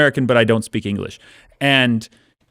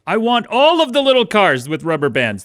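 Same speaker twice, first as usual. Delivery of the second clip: put-on higher spoiled-kid voice; spoiled child; 9 semitones higher than usual. Spoiled mobster's kid asking daddy for all the toy cars, higher child voice. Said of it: "the spoiled child of some German".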